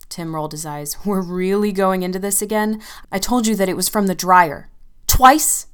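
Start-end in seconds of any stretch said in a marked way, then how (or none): 1.1-5.7 hissed. Acted. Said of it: "I hissed".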